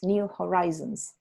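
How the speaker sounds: "horizons" with "rise" in the middle; slow "new horizons" with a long i; correct pronunciation. Shown as a demonstration. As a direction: model "new horizons" slowly, ho-RYE-zons. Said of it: "se dice horizons".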